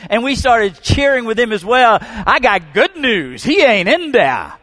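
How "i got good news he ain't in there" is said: loud, slow, high shout; joyful shout. Retold or imitated. Preacher repeating the man's cry, loud joyful shout. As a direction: call it out like good news.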